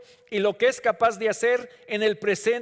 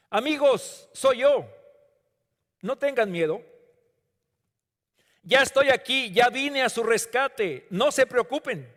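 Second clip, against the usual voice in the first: louder and higher, calling across the storm; preacher voicing Jesus, raised and reassuring; 5 semitones higher, 3 dB louder than usual. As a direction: reassure frightened friends from afar. Preacher voices Jesus reassuring disciples.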